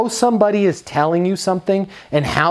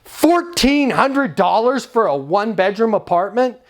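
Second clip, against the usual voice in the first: mock yelling customer; 7 semitones higher than usual. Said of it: "somebody will be yelling and put extra emphasis".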